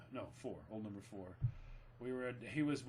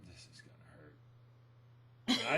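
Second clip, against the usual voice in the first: very slow, stretched out and lower; slow drawn-out dread; 11 semitones lower, much slower than usual. Retold or imitated. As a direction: drag each word out as he looms closer. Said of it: "I went".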